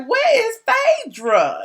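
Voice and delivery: high call dropping back down on the name; Lawrence. Retold or imitated. Blogger quoting a line to find a guest, imitation. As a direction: imitate a comic calling out for someone. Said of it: "I was quoting Lawrence".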